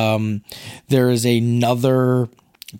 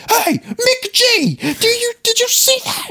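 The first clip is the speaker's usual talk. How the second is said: Christian Bale. Retold or imitated. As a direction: yell for the director in exaggerated outrage. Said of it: "at one point in his rant".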